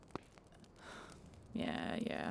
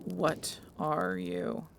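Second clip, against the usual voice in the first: very slow, suspicious interrogation; menacing question; 3 semitones higher, much slower than usual. Acted. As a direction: drag it out to intimidate. Bex interrogates stranger.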